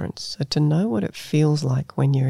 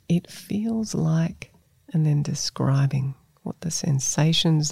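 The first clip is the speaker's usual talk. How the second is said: guided meditation. Acted. Leads a self-compassion meditation.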